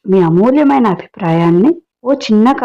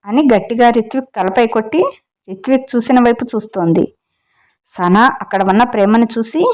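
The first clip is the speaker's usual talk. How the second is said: story narration; 2 semitones higher than usual. A narrator's reading. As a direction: tell the tale to your listeners, lightly dramatic. Reads the story aloud. (కథ చెప్పే స్వరం)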